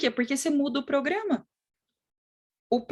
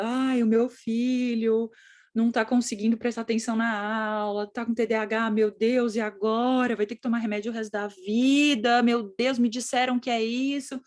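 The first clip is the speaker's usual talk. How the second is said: mildly dramatised maternal lament; worried mother. Acted. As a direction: fret like an overwhelmed mum. Voices a worried, distressed mother.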